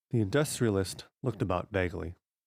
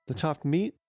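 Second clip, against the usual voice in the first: higher, rising question of disbelief; surprised echo; 8 semitones higher than usual. Acted. Boy repeats his father's accusation, startled. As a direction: play dumb with a startled echo.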